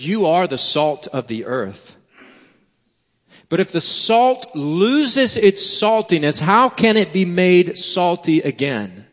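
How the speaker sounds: measured, solemn Bible reading aloud; scripture reading. Acted. Reads scripture aloud to congregation.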